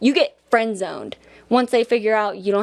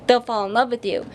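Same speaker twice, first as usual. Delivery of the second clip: ordinary delivery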